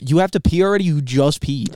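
incredulous. Real, not acted. Incredulous at friend.

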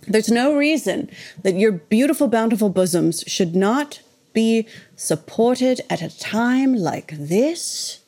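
lightly put-on grand, drawn-out voice; slightly hammed-up, stretched-out plea; put-on persona. Host mock-pleading to listeners about bras, a lightly put-on voice. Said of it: "I don't know who that was".

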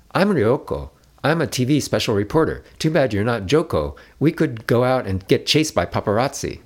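put-on a teen girl teasing the boy she just met; high bubbly Ryoko; playful teen girl. A narrator's reading. Ryoko introduces herself playfully.

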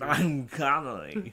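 slow, badly imitated film star; hammed-up star introduction; Sean Connery. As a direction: drag it out like a botched impersonation. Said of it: "Connery and Walken had a baby".

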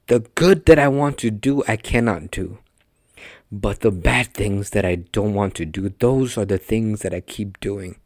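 lightly hammed-up Shakespearean reading; a touch of Shakespearean British accent. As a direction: read scripture with a theatrical Shakespearean accent. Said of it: "like, a Shakespearean accent or whatever".

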